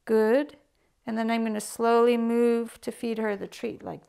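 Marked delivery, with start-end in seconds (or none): 0.1-0.6 marker word. Shown as a demonstration. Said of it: "marking it".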